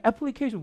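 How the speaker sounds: "애플리케이션" without an English stress; Korean-style, even syllables. Shown as a demonstration. Teacher showing the Korean habit, evenly timed "애플리케이션". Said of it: "우리말은 이렇지만".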